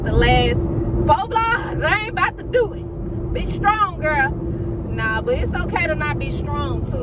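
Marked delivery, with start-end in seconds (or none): 1.8-4.3 higher, quicker, pushing back tears; forced brave voice to herself; self pep talk. Real, not acted. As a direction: cheer herself on, holding back crying. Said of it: "I'm trying not to cry".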